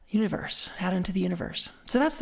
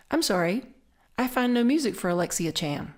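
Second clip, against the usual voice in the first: imitating Alexa; 2 semitones higher than usual. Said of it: "I get something like this".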